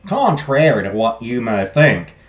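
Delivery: attempted Southern US drawl, slowing down; Southern US accent. Godmother explains fairies to the princess, Southern accent. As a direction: try a deliberate Southern US accent. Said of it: "Can I do a Southern U S a-, accent?".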